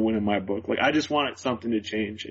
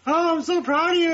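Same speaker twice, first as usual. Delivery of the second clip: much higher, louder mock mother voice; imitating proud mom; 4 dB louder than usual. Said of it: "And she's just like".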